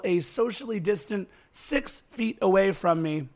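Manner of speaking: ordinary talk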